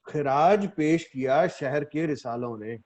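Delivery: measured ghazal recital with held pauses; mushaira recitation. Acted. Poet opens a ghazal before appreciative listeners, mushaira recitation. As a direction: recite the couplet phrase by phrase.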